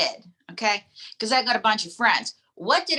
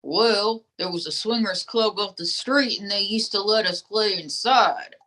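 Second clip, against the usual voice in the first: lightly voiced folksy dummy; ventriloquist dummy; 2 semitones lower than usual.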